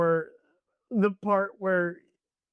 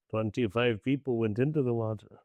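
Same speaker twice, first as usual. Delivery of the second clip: a lower, gruff Quint impression; lightly voiced grizzled sea captain telling his tale; Robert Shaw as Quint; 5 semitones lower than usual. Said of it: "Robert Shaw character".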